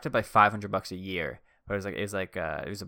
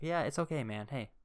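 super friendly. Retold or imitated. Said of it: "I was just being super friendly".

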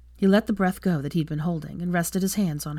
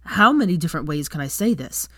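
louder, exasperated shout; shouting back; 4 dB louder than usual. Acted. Draco losing his temper at Hermione, shouting back. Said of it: "shouted back at her".

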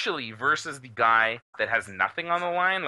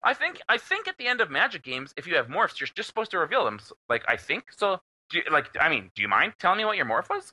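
pitched-up casual question; nonchalant; 3 semitones higher, faster than usual. Retold or imitated. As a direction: act like it barely matters. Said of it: "just so nonchalant".

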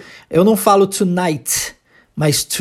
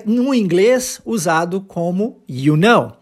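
usual speaking voice

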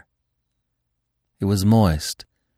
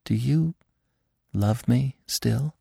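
soft, slow and higher, a tender question; softly asked; 4 semitones higher, 3 dB quieter, slower than usual. A narrator's reading. Feline softly asks Bambi if he still loves her, tender. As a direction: ask it gently, afraid of the answer. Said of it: "asked softly".

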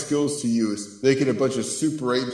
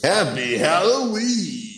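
excited; 8 semitones higher, slower than usual. Real, not acted. Cheerful holiday sign-off.

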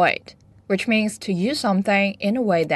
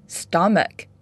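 ordinary delivery

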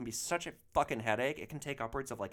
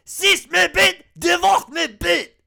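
screaming fake French, much higher and louder, slow; mock French yell; 15 dB louder, slower than usual. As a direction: bellow a broken French parting insult. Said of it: "I just yell".

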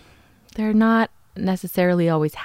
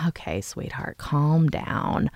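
soothing detective; 6 dB quieter, slower than usual. Retold or imitated.

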